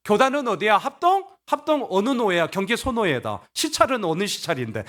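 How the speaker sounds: high, punchy mock interrogation; nitpicking challenge. Members grilling Paul about his denomination, nitpicking challenge. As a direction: fire questions like a picky examiner. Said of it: "막 이렇게 따지는 거예요".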